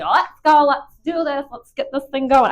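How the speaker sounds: high, loud mock rallying cry; imitating eager dog. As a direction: voice the dog raring to go. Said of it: "He's like".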